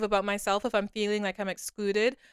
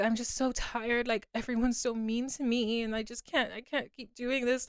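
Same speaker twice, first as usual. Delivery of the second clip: retold tearful plea; 3 semitones higher, 4 dB quieter than usual. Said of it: "I just started bursting into tears".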